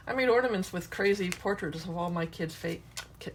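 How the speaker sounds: talking around a pencil in the mouth; words muffled by a pencil between teeth. Real, not acted. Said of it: "you probably can't hear me talking with a pencil in my mouth".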